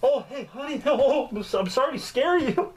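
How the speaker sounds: waking the wife, embarrassed and laughing; sheepish to wife. Retold or imitated. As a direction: giggle through an awkward confession. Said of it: "Go wake her up?".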